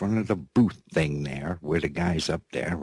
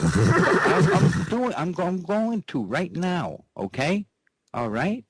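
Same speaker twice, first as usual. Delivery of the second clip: laughing; 11 semitones higher than usual. Real, not acted. Laughing reply to sweetheart.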